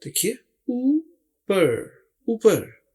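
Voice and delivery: ऊपर stretched slowly and clearly, then repeated; drawn-out demo word. Shown as a demonstration. Teacher to students, modelling ऊपर slowly. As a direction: say ऊपर slowly, each sound spelled out. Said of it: "तो इसे कहते हैं ऊपर".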